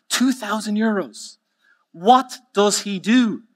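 stunned joke-teller's squeak, stretched out; incredulous customer. Acted. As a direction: repeat the price in high-pitched disbelief. Joke customer reacting to higher price.

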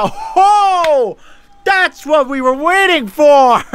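real delighted shout, slowing; excited cheer. Real, not acted. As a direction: cheer the long-awaited win. Boss defeated at last, cheering.

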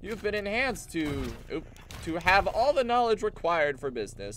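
sing-song voice of a cheerful clone; lightly voiced chirpy clone; upbeat clone voice. Clone dialogue acted out.

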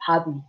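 pabi with the P voiced into B; pabi, soft B in the middle; linked sound. Shown as a demonstration. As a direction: say pabi, the consonant carrying over. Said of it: "I heard somebody say".

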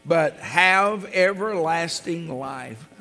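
slow, solemn verse read with emphasis; scripture reading. Acted. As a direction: lift each phrase of the verse to the congregation. Reads scripture aloud to congregation.

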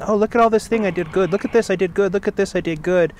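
look-at-me bragging, mildly imitated; boastful kid. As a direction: imitate a child eagerly fishing for praise. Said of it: "the kid was like".

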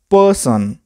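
पर्सन said as two parts, पर and सन; two syllables. Shown as a demonstration. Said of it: "दो भाग में बांट के बोलते हैं".

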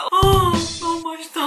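high, loud, drawn-out delight. Real, not acted. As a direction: savor it out loud, blissful. Savoring cheesecake.

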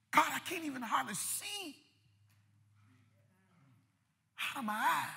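acted weary, tearful prayer; tearful lament. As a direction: let the cry sink into exhausted pleading. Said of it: "I done cried so".

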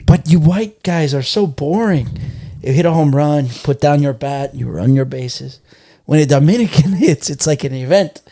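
lightly imitated comic correspondent, stretched phrases; sketch correspondent. Friend retelling the baseball bit, correspondent voice. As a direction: play the correspondent, dragging out the key words. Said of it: "And he's like, and he's like".

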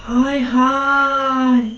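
dismayed. Acted. Mother surveys the wrecked house.

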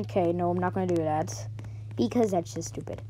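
unvoiced whispered aside. Real, not acted. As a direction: whisper it to yourself. Muttered aside.

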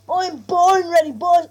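loud, slow, punching born; hyped declaration. Real, not acted. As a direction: shout it out, pumped up, stretching born. Hyped at match start.

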